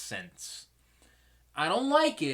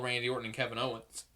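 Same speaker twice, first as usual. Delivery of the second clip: hiccups; 2 semitones lower, 5 dB quieter, faster than usual. Real, not acted. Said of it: "now I'm getting the hiccups".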